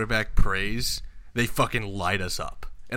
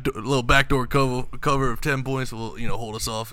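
loud, hyped Dallas fan bravado; Cowboys fan voice; 2 semitones higher, 4 dB louder than usual. Pretend. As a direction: play the cocky Cowboys fan. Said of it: "I'm talking like a Cowboy now".

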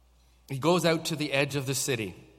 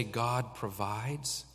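slow call and response; 3 semitones lower, 5 dB quieter, much slower than usual. Shown as a demonstration. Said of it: "can you say".

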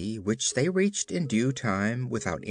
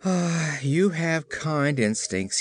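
regretful sigh; 4 semitones higher, slower than usual. Acted. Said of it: "sighed regretfully".

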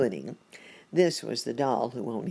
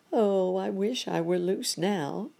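high, plaintive wish; longing cry; 5 semitones higher than usual. A narrator's reading. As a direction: cry it out as the stuck monkey. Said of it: "cried the monkey".

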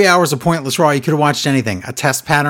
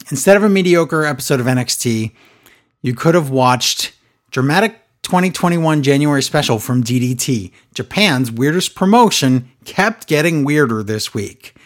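commercial voice. Acted. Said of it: "I'm doing my commercial voice".

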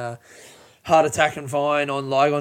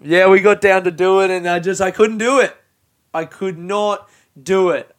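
emphatic frustration; 4 semitones higher, 8 dB louder than usual. Real, not acted. Recalling failing to act.

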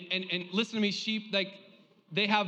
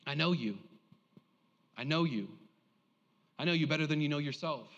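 tender reassurance. Acted. Preacher voicing God to each listener, tender reassurance.

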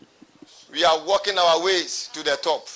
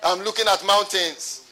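mock fretful cry; 4 semitones higher, 7 dB louder, much slower than usual. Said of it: "Doesn't run around and say".

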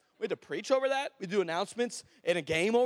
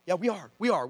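reassuring recovery; 4 dB louder than usual. Retold or imitated. Pastor recovers and affirms the promise.

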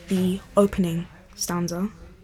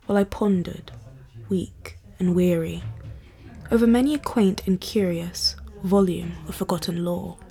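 measured, solemn poetry recital; poem reading. Acted. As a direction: read it like a dark Victorian poem. Reads The Raven aloud.

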